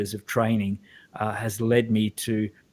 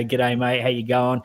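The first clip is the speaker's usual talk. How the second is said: broad Australian accent. Shown as a demonstration. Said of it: "real Australian accent like this".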